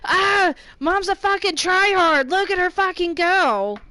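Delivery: mock complaining viewer. Viewers griping that mom's a tryhard, mocking loudly. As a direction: put on a loud, griping voice. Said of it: "it's like".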